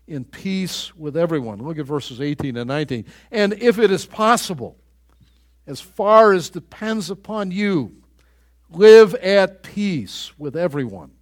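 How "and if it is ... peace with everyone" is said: forceful reading. Real, not acted. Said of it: "preacher reads Romans with force".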